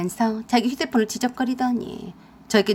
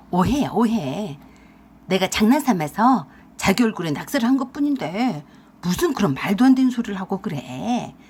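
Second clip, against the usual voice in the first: sly wheedling; 3 semitones lower than usual. Acted. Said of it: "비열하게 웃으면서 그랬습니다".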